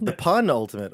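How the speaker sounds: "pun ultimate" with an open first vowel, stressed. Shown as a demonstration. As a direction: lean on "pun" at the front of "pun ultimate". Punning on disputed pronunciation.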